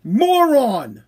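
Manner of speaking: slow, stretched-out mock scolding; exasperated correction. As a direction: imitate listeners spelling it out for a slow learner. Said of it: "You were trying to tell me".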